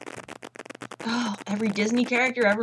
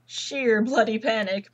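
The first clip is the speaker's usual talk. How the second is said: slow, hammed-up British "sheer bloody panic"; mock British accent; 4 dB louder, slower than usual. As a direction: put on a playful fake British accent. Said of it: "I'm not British. Sorry, I had to do that".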